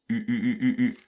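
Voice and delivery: U with lips pushed forward; rounded u drill. Shown as a demonstration. Teacher drilling the French u sound, lips forward. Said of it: "Avancez les lèvres".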